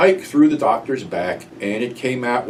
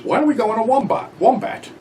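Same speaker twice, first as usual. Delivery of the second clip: stoned friend's suggestion; 11 semitones higher than usual. Retold or imitated. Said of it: "when Gas goes".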